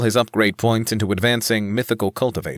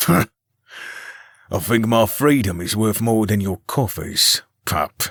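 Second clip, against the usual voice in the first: slow, snorting fanged brute; snorting monster; much slower than usual. Acted. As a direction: drag it out with a contemptuous snort.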